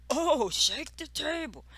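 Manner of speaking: high-pitched mimicked comeback; mock taunt. Castmate answers the warning with a taunt, high mocking imitation.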